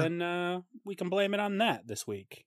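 sick, wheezy voice. Real, not acted. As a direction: speak with a slight wheeze. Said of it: "I sound wheezy".

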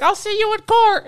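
very high, loud mock threat; mocked huffy lady. Lady shouting as she drives away, mocked huffy lady. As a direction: squeal her parting threat in imitation. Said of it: "she's like".

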